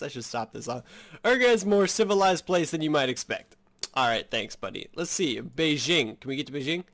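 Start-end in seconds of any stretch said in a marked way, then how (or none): 1.2-3.6 a higher, louder mock-French accent. NPC describing Urga in a hammy French accent. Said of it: "should I stop this".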